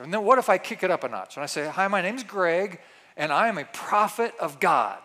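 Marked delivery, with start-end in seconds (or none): 1.7-5.0 mock prophet voice. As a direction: pretend prophet, lightly voiced. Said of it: "I even changed my voice".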